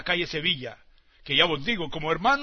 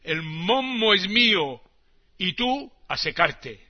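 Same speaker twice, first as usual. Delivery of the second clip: greedy Trombino. Acted. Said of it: "dice Trombino".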